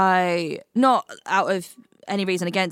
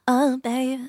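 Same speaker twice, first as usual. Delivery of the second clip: mock pop singer; 5 semitones higher than usual. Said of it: "I'll be a pop singer today".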